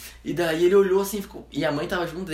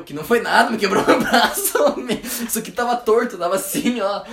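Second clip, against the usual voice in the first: indignado; 5 semitones higher, 5 dB louder than usual. Retold or imitated. Menino indignado com o médico.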